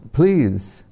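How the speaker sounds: put-on mildly beg, as a child would; pleading. Boy begs deity to eat.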